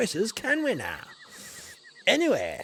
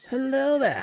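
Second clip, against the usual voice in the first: hearty greeting; 7 semitones higher, 3 dB louder than usual. Acted. Explorer greets Grumpy Puppy again.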